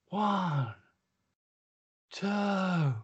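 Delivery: high shouted count; shouted referee count. Acted. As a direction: bellow the count like a ring announcer.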